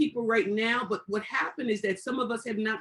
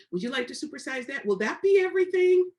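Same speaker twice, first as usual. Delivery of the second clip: lightly voiced cashier, jumping higher and louder on everything; mock drive-through cashier; 5 semitones higher, 5 dB louder than usual. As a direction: imitate a chirpy fast-food order taker. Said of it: "the way these young people speak".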